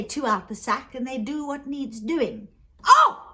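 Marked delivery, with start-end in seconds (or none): 2.8-3.2 sudden high, loud "oh"; excited exclamation. Acted. Rich brother hearing of the magic sack, excited. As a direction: burst out high with delighted interest.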